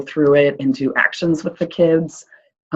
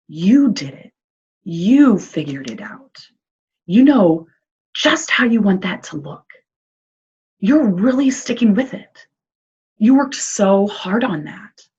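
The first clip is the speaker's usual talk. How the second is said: genuine praise; 3 semitones higher than usual. Shown as a demonstration. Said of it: "be genuine, be casual, don't oversell it".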